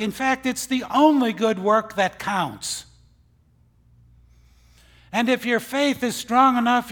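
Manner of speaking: loud, high preaching climb; preaching at full force. Acted. Preacher rousing the congregation, loud and high. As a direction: build the sermon to a ringing peak.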